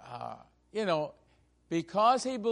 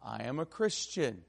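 calm reply; 3 semitones lower, 4 dB quieter than usual. Retold or imitated. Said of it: "he started out very calmly and said".

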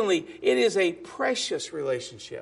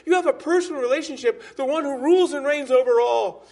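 emphatic preaching; 5 semitones higher, 4 dB louder than usual. Acted. Preacher stressing God's power.

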